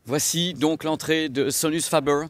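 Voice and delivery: Sonus Faber in a mock English accent. Shown as a demonstration. Vlogger mocking his own English accent on the brand. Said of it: "Je le dis encore avec un accent anglais".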